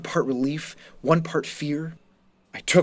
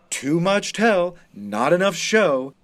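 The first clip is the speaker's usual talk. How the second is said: mock scolding teacher; 3 semitones higher, 3 dB louder, slower than usual. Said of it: "berating us for".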